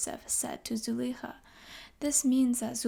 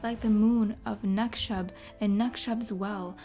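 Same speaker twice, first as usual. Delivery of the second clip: storyteller reciting rhymed verse; poem reading. Acted. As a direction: read it like an old epic poem. Reads verse poem aloud.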